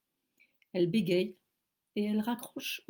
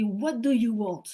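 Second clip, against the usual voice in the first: gruff question; 3 semitones higher, 7 dB louder than usual. Retold or imitated. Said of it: "il me dit".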